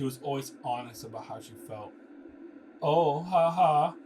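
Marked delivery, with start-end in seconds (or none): 2.8-3.9 a loud, slow, hammed-up "ha ha"; slow fake laugh. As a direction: laugh it out slowly and theatrically. Character laughs while reading a script.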